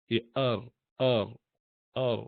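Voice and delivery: ار with one light tap, no trill; clean single-tap r. Shown as a demonstration. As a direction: say ار tapped once, tongue still. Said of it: "ٹریلنگ نہیں ہونی چاہیے".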